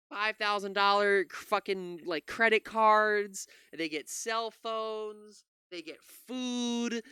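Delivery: slow, sneering list of claims; mocking drawl. YouTuber mocking right-wing claims about immigrants, slow and sneering. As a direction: drag each item out like it's absurd.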